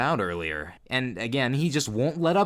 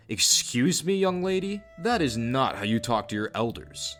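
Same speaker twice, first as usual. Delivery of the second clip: mild mock telling-off; a touch of offended elder; displeased scolding. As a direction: act out an indignant reprimand, lightly. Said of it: "He wasn't happy about that either".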